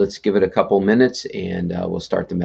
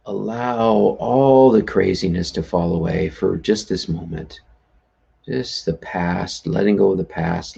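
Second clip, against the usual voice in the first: guided meditation. Real, not acted. Meditation host settling online listeners into relaxing, guided meditation. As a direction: ease listeners into letting go, unhurried.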